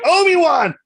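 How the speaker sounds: high, loud imitation of Vader's cry; hammed-up furious call across the room; retold Vader bellowing Obi-Wan's name; mock yell. Vader yelling for Obi-Wan.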